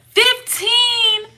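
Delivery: high, loud disbelief; high-pitched shock; shocked outburst. Real, not acted. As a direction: blurt it out in amazement. Shocked reaction to age.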